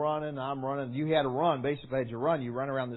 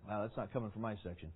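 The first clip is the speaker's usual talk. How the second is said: inner worry; 5 semitones lower, 12 dB quieter, faster than usual. Retold or imitated. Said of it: "And I'm thinking".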